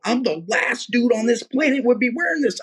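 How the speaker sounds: very high, incredulous testifying; excited insistence. Retold or imitated. Man convincing a distressed woman he means it, excited. Acting out his excited witnessing.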